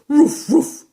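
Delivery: big dog barking at a sound. Acted. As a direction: bark like a big shaggy dog. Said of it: "said Muffin Maclay".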